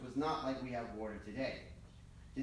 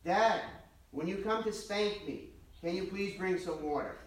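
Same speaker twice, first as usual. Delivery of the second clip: put-on loud, high call from a boy in bed; child shouting; 5 semitones higher, 4 dB louder than usual. Boy shouts to his father from bed, cheeky. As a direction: shout it out cheekily, asking for water. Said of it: "the boy shouts out".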